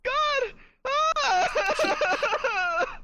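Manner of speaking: high-pitched, exasperated cry; exasperated outburst. Acted. Player protesting as someone touches the crystal, exasperated and high. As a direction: let the pitch leap in mock alarm.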